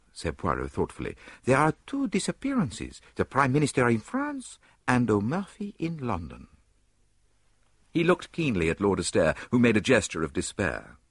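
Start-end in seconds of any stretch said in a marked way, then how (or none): 1.4-6.5 lightly voiced Belgian detective, pitched up; a touch of a French-Belgian lilt; Poirot's voice. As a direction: dapper little detective, musing.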